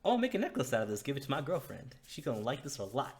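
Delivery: high, gushing delight over a real pendant; excited. Acted. Garth admiring the pendant, squealing with delight. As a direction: gasp and gush, pitch way up.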